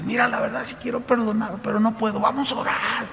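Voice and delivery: a touch of crying as she pleads; tearful pleading. Retold or imitated. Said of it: "empezó a llorar".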